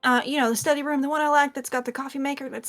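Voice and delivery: casual, rambling squire recounting the morning; lightly voiced chatty squire. Squire tells newcomer about falling asleep, lightly voiced and rambling. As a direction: lightly play a squire explaining themselves. Game master plays squire Ara.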